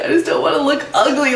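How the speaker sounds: high whiny quote. Retold or imitated. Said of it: "I was just like".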